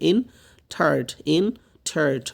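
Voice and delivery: "এন্টায়ার্ড" broken as en-tard, ending sounded; careful model of the last consonant in "এন্টায়ার্ড"; final D pronounced. Shown as a demonstration. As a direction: sound out "এন্টায়ার্ড" with a distinct closing d/t. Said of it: "ডির উচ্চারণটা আসবে".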